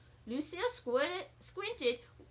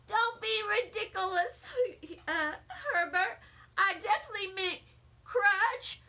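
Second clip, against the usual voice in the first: laughing; 6 semitones higher than usual. A narrator's reading. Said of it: "I started to laugh".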